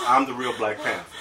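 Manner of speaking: giggling while quoting; chuckling mock hero line; laughing through the quote.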